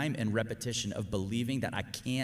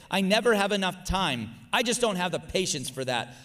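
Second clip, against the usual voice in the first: a mildly higher, louder, whiny complaining voice; voicing negative self-talk; 5 semitones higher, 5 dB louder than usual. Shown as a demonstration. Preacher reads the listener's negative thoughts in a mild whine. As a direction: act out the defeatist inner voice. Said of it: "I'm just gonna read through them".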